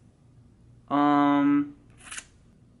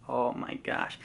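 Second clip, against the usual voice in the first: breathless relief; 2 semitones lower, 9 dB quieter, slower than usual. Real, not acted. Relief after escaping arrest.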